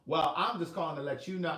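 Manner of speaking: a touch of the mother's sassy, pointed tone; lightly voiced mother, head bobbing; reenacting mother. Shown as a demonstration. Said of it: "Let me reenact".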